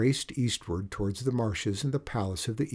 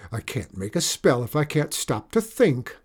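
evil enchanter; 3 semitones higher, 5 dB louder than usual. Acted. Enchanter chased.

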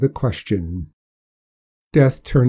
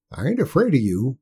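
put-on a stubborn backwoods old-timer; old country man; 3 semitones higher, faster than usual. Old Hark voiced by narrator.

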